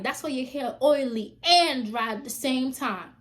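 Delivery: loud, slow, deliberate jab; loud parting insult. Retold or imitated. Turning back to insult the girl's hair, loud slow jab. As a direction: land the last insult.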